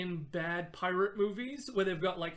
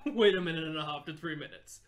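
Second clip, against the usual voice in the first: fast laughing rush; 3 semitones lower, 4 dB louder, faster than usual. Shown as a demonstration. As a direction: rattle "Wait" and the rest off fast, with a laugh. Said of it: "repeats it to contrast".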